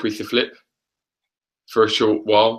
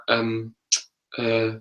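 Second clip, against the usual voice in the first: normal talking voice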